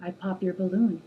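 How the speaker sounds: low, measured verse reading; poem recitation. Acted. Woman reciting her own poem to the camera, restrained poem recitation. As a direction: recite it low and restrained, pausing after each line.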